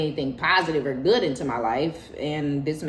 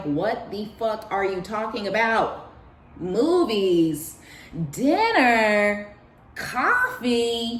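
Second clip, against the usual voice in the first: higher, loud disbelief, stretching each item; incredulous retort; 5 semitones higher, 4 dB louder, much slower than usual. Retold or imitated. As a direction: throw the offers back in disbelief. Incredulous reply to invitations.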